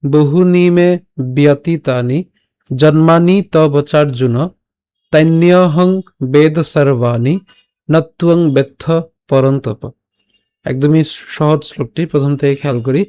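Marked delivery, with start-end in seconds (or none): 0.0-9.8 slow, measured shloka recitation; verse recitation. Shown as a demonstration. Teacher reads out today's shloka, slow measured recitation. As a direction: recite the Sanskrit verse with drawn-out long vowels. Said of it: "তো আজকের শ্লোকটি হলো".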